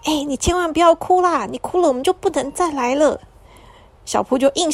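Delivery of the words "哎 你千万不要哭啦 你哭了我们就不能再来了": put-on higher child voice pleading with her friend; lightly voiced little girl, anxious; urging child. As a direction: beg him not to cry. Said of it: "这时候小朵就说".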